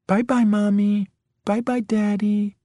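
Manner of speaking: high, drawn-out taunting singsong; mock child's goodbye. A narrator's reading. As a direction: taunt them in a little child's voice. Intruder mimics child's goodbye to parents.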